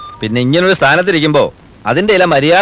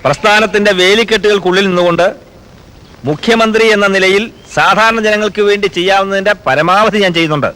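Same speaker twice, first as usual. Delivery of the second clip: earnest political address, slightly raised pitch; solemn declaration; 3 semitones higher than usual. Acted. Chief minister defending himself to his own people, solemn and emphatic. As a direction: declare it firmly, phrase by phrase.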